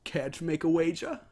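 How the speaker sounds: Discord voice. Acted. Discord shrugs off the wall and sets out his game. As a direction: toy with the ponies.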